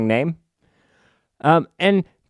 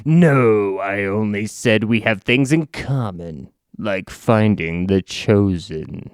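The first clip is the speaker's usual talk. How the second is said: lower, slow villain; terrible man voice; 6 semitones lower, slower than usual. Acted. Evil man correcting the band, low and scheming. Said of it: "terrible man says".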